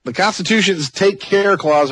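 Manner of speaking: slow Texas drawl on take care; drawn-out Texan take care, rising at word ends; Texas accent. Shown as a demonstration. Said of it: "I'm trying to use my Texas accent here".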